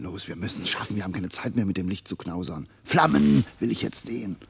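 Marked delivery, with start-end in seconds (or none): 2.8-4.4 a touch of a master of fire giving orders; commanding. Acted. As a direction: order the flames up, slightly raised. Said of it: "spricht wie der Gebieter über das Feuer".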